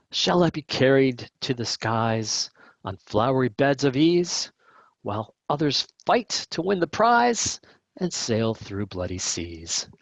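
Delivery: lightly hammed-up pulpit reading; hymn read with relish. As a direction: declaim it like a showy country preacher. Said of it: "read through it with a relish, in a particular style".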